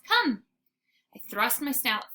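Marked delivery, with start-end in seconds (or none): 0.0-0.4 high, loud command; girl calling her dog to come. Acted. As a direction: call the dog in firmly. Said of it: "she calls".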